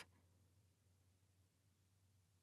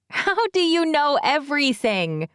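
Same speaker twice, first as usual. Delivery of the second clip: mock surprised; 5 semitones higher than usual. Teasing mother exchange.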